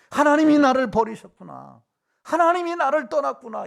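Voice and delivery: loud, high lament, acted; forsaken cry. Preacher voicing someone who reads hardship as abandonment, crying out.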